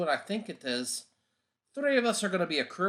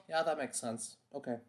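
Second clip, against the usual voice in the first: to himself; 9 dB quieter than usual. Acted. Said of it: "and nod to myself".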